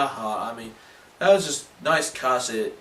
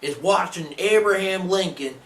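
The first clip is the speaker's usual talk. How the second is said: loud, rising excitement into a laugh; rowdy cheering; 5 semitones higher, 5 dB louder than usual. Acted. Fan cheering Abraham Lincoln kicking ass, rowdy excited cheer. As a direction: crow with patriotic pride, building louder.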